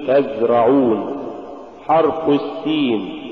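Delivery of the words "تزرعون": تزرعون with the z sound running on; continuous voiced z in تزرعون; soft flowing zay. Shown as a demonstration. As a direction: let the z flow in تزرعون. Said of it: "قل".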